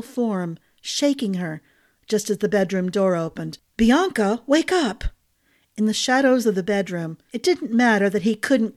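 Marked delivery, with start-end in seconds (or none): 3.8-5.0 louder, higher fake panicked call; staged cry. Husband putting on panic as servants enter, loud and high.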